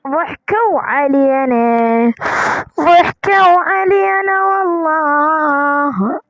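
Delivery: slow whiny mock sob; hammed-up fake weeping, slow; mock crying. Mock crying over empty chests.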